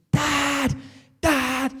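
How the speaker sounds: put-on high, urgent child's call of Dad; high-pitched imitation of son yelling; imitating son calling out. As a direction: mimic a kid shouting for his dad. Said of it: "My son's screaming".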